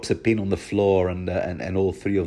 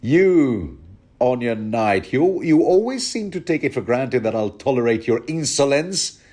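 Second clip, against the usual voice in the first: a hint of a threatening king, higher; menacing king; 3 semitones higher than usual. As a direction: lean in with mock menace. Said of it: "along the lines of".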